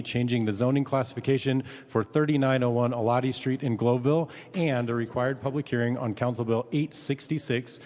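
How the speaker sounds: loud, measured public announcement; deliberate formal reading. Real, not acted. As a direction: read the official notice out firmly and deliberately. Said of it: "I'm gonna read this slower".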